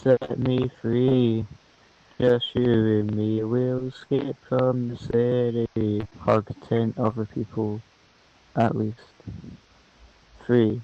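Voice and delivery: zombie voice. Acted. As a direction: drone it like a zombie. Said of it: "Why are you reading it like a zombie?".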